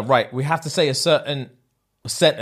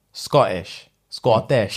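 Scottish accent; 4 semitones lower, much slower than usual. Shown as a demonstration. Podcaster shows his trigger word for accents, Scottish accent. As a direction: place name in a Scottish accent. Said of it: "name of the place sounds like in their accent".

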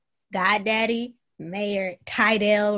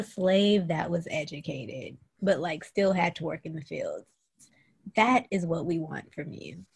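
mock director; 3 semitones lower than usual. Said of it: "his instructions for the accent were like".

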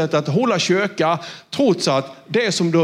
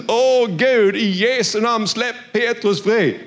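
fervent crying prayer; 4 semitones higher, slower than usual. Retold or imitated. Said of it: "de ber och de skriker".

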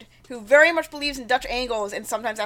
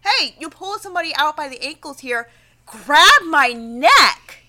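mock challenge; 3 semitones higher, 7 dB louder than usual. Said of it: "So he tells the ghost".

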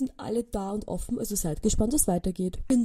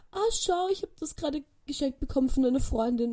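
neighbour's voice; 6 semitones higher than usual. Retold or imitated.

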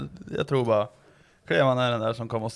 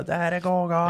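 skrikande gubbe; 6 semitones higher than usual. Retold or imitated. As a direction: holler it like an angry street shouter. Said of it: "Jag var han som är och skriker". (härmat gubbskrik)

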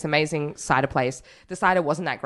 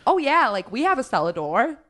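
put-on American accent; 6 semitones higher than usual. Imitating the old American winery owner on the phone, American accent. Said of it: "I don't wanna do the accent, but I kind of do".

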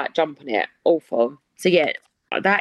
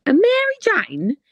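high unvoiced disbelieving whisper; incredulous whisper; 13 semitones higher, slower than usual. Real, not acted. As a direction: whisper it back in shock, slowly. Reading listener name in disbelief.

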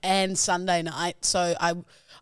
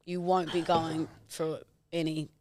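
mock-stern self-talk; 3 semitones lower, 6 dB quieter than usual. Retold stern talk to herself.

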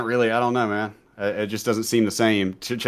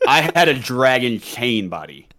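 laughing lisp impression; slower than usual. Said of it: "he had a lateral lisp".

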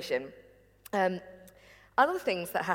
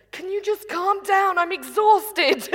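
imitating mum; 11 semitones higher, 7 dB louder, slower than usual. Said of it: "and she went".

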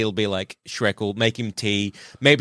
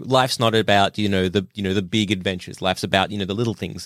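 put-on old man Shrek voice; 5 semitones lower than usual. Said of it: "an old man Shrek voice".

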